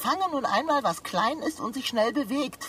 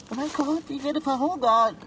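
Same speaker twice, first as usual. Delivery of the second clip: higher and louder, rising into panic; panicked wail; 5 semitones higher, 3 dB louder than usual. Acted. Stuck cat wailing to its friend, panicked and loud. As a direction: let the panic burst out.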